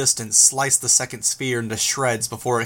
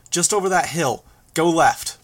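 high, urgent command; urgent directions; 5 semitones higher, 3 dB louder than usual. A narrator's reading. Flier steering driver away from fire, urgent call.

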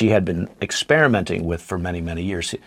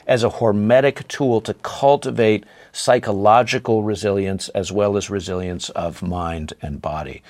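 normal talking voice

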